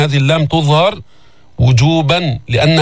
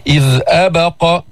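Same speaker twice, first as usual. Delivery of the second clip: Quran recitation. Shown as a demonstration. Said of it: "هل الباء هنا مقلقلة".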